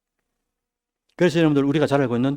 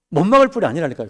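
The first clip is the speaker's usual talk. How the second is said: insistent sermon line; 2 semitones higher, 6 dB louder, faster than usual. Acted. Preacher insisting.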